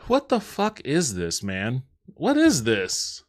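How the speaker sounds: blurted-out disbelief that slows into a drawn-out question; shocked disbelief. Real, not acted. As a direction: react as if you can't believe your eyes. Reacting to a bizarre sketch.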